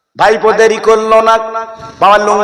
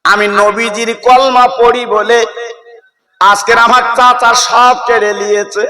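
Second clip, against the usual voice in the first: crying son; 4 semitones higher than usual. Acted. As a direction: sob out the loss to mother. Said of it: "ছেলে কেঁদে কেঁদে বলছে". (উঁচু গলায় কান্নাভরা বিলাপ)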